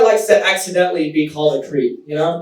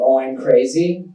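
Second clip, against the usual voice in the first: menacing reaction; 5 semitones lower than usual. Retold or imitated. Woman just called crazy, answering with a mock menacing threat. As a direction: drop the pitch and threaten playfully. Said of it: "they all have the same reaction".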